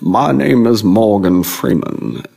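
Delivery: slow, badly faked actor impression; horrible, drawn-out celebrity impression; Morgan Freeman. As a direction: slowly attempt a famous narrator's voice. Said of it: "my Morgan Freeman is just horrible".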